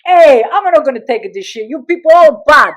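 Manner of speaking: mock outraged broken-English shout; indignant father. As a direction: imitate dad storming off offended. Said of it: "all he would do was say".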